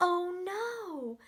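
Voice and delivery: loud, high dismayed cry; alarmed. Acted. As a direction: gasp it out like bad news. Story alarm, reading to kids.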